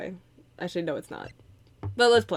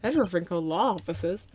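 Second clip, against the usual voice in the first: name tossed off with a questioning rise; mock surprised question. Streamer retelling her reaction to the name, questioning. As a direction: echo it back as a surprised question. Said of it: "Oh, I was like".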